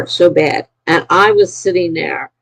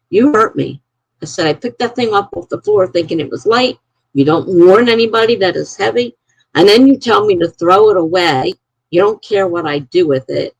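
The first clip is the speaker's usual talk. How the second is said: retold angry complaint; 3 semitones higher than usual. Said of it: "really pissed off".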